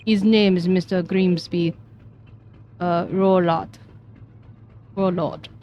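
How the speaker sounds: put-on stiff Russian accent; weak Russian accent, sailor. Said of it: "I'm so bad at this Russian accent".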